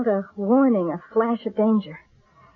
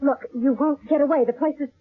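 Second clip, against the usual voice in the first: higher, pleading for her life; frightened pleading; 3 semitones higher than usual. Acted. Psychic begging the armed killer for her life, higher and scared. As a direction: talk fast to stay alive.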